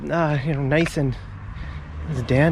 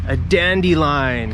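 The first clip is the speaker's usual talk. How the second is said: slow teaching word; slower than usual. Shown as a demonstration. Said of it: "those are called dandelions".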